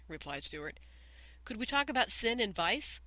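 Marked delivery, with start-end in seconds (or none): 1.5-3.0 pleading. Acted. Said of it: "pleaded Lydia Lacy".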